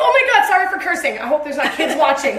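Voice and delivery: high, loud, laughing apology; laughing mock apology. Speaker to viewers, apologizing through laughter. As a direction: giggle through a fake apology.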